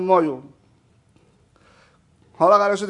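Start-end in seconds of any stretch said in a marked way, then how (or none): 0.0-0.4 Mashhadi "مایو" for "I am", short and falling; Mashhadi accent. Shown as a demonstration. Preacher demonstrating how Mashhadis say I am, Mashhadi accent. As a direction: say "مایو" the Mashhadi way, not "منم".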